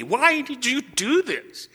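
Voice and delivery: imitating his own anger at himself; scolding yourself. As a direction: berate yourself for acting stupid. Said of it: "I was angry at me".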